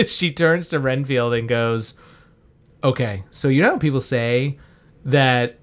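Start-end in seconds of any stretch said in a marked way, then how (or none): 2.8-5.6 retold grave line. Quoting a grave movie threat.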